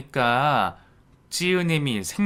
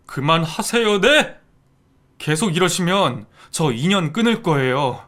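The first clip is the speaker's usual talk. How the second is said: loud firm warning, spiking on 네; angry warning; 3 semitones higher, 4 dB louder than usual. Acted. Son-in-law angrily warning his stepmother. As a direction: warn her you are done.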